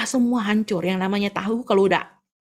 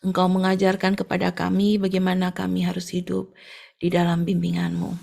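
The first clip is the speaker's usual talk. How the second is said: closing prayer. Real, not acted.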